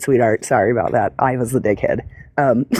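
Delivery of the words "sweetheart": "Sweetheart." low and falling, final; flat dismissive sweetheart. Retold or imitated. Correcting herself to the viewer, a low falling "Sweetheart.". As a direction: drop "Sweetheart." down flat like a put-down. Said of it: "Or no, I said".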